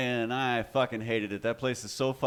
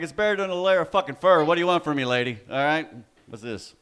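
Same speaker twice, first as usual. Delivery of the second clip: mock exasperated yell; 5 semitones higher, 6 dB louder than usual. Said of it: "I'm like".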